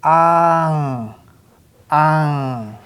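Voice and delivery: "ang" drawn out into a held ng; syllable reading. Shown as a demonstration. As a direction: read "ang" slowly with silent onset, NG ending. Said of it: "let's read these syllables".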